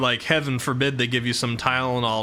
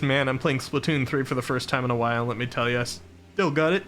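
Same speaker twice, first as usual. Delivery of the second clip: talking through hiccups; hiccuping. Real, not acted. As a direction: hiccups breaking the words. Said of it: "Excuse me, I got hiccups".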